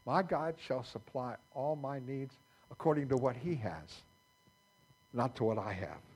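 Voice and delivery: key words of the verse picked out with stress; emphasis on key words. Shown as a demonstration. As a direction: stress MY, then lean on HE. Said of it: "let's put the emphasis on the words".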